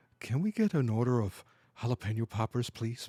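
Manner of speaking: quiet, hushed stage whisper under the breath. Retelling how one of the big bosses ordered from her: retelling a half-whisper. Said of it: "he whispers to her and he goes".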